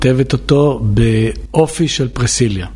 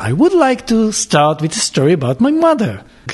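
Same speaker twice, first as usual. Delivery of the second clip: put-on British English accent, sing-song, pitched up; 8 semitones higher than usual. Speaker demonstrates opening a talk in English, British accent. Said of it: "שזה היה בטח בריטי".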